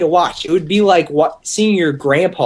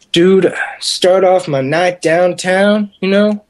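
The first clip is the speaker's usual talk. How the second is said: bragging partier; 2 semitones higher, slower than usual. Retold or imitated. Imitating drunk guy bragging about night.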